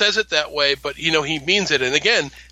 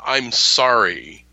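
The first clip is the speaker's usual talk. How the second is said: genuine apology; 4 semitones lower, much slower than usual. Retold or imitated. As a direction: draw it out gently, meaning every word. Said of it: "that moment of genuine".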